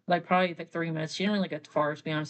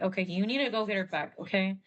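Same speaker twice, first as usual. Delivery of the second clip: brisk, quick lecture to Hank; quick bossy telling-off; fast instructions. Retold or imitated. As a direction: rattle off the orders. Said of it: "tells Hank, like".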